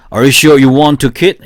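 very slow, each word spaced for repeating; deliberate slow model sentence, question lifted at the end; slow drill reading. Shown as a demonstration. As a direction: read it slowly so students can follow. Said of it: "시작".

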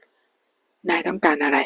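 slow, level and unmoved question; flat calm voice. Acted. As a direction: ask it coldly, giving nothing away. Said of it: "เคนถามเสียงนิ่ง".

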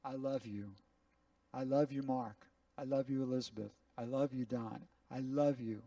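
God's gentle voice to each listener; tender voice of God. Acted. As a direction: speak God's love gently to each one. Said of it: "you to hear him say".

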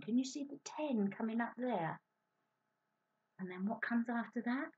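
soft unvoiced whisper; hushed whisper pointing to the ten. Real, not acted. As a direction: whisper it to build suspense. Whispered question to children.

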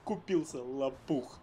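slow smug murmur; smug aside. Acted. Drops act, smug aside.

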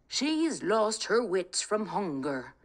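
lightly voiced old father, slow; a gentle Irish da, unhurried; a hint of an old father, slow; kindly old father.

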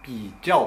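ピーチャオ as bǐjiào, チャオ with a sharp falling fourth tone; quick Putonghua ピーチャオ, falling on チャオ; standard Mandarin ピーチャオ. Shown as a demonstration. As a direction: textbook ピーチャオ, チャオ dropping. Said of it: "標準語だと、プートン話だと".

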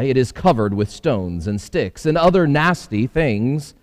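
lightly voiced eager housefly; a hint of a busy little fly. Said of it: "said the housefly".

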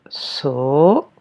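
"sau" stretched out alone, rising; isolated syllable. Shown as a demonstration. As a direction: dictate "sau" as one long separate syllable. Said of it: "première syllabe".

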